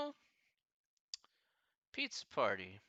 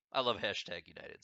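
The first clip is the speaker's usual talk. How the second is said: British accent; 3 semitones lower than usual. Shown as a demonstration. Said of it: "the terrible British accent".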